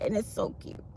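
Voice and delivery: unvoiced whisper of it's so cute. Real, not acted. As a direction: whisper it breathlessly. Whispered then repeated.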